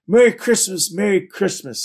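high, cheering holiday greeting; excited greeting. A narrator's reading. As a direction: call out the greeting with glee. Story characters greet Travis excitedly.

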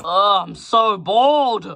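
slow drawn-out bored sigh; bored whine. Acted. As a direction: drag out the boredom. Toy whines about boredom.

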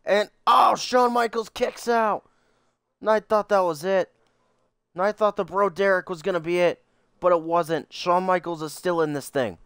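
excited play-by-play call; wrestling commentator. Acted. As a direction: call the match like a ringside announcer. Plays wrestling commentator over game.

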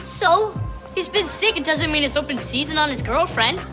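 high, indignant protest. Acted. Defends his girlfriend indignantly.

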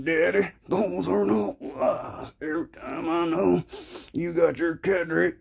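high, whimpering suck-up to daddy; fawning conservative. Acted. Acted submissive conservative in comic bit.

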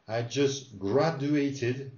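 very slow, each syllable laid out; slow it right down so the student hears every sound; slow drill. Shown as a demonstration. Teacher slowly modelling for the student. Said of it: "let's do it again".

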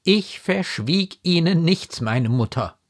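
solemn, impassioned assurance; full of pathos. A narrator's reading. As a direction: protest innocence with fervour. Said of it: "voll Pathos getan".

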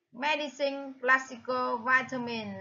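Medicine, classical, vitamin, each stressed at the start; first-syllable stress. Shown as a demonstration. Teacher lists matching words, Medicine, classical, vitamin stressed on the first syllable. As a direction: lean on MED, CLASS and VI. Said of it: "là the first stress".

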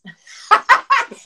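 a sudden loud, high laugh breaking the line; burst of laughter. Real, not acted. Author laughing to the host about implant size, bursting into loud laughter. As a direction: laugh out at the funny silver lining.

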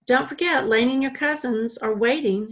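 loud, lilting sing-song reminder; sing-songy. Acted. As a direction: sing it out brightly and loudly. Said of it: "she said in a sing-songy voice".

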